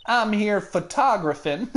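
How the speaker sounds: "photographing" said as fuh-TAH-graphin, Southern. Acted. Lotta explaining her work, "photographing" said fuh-TAH-graphin. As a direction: stress the second syllable of "photographing", drop the g.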